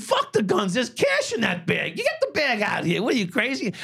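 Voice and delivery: high, urgent shouted orders; retold shout. Cop shouting at his partner to take the cash bag. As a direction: yell at your partner to grab the cash. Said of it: "I said".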